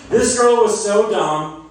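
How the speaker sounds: drawn out, high and loud; slow emphatic setup. Acted. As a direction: stretch it out like a catchphrase. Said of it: "I need you guys to say".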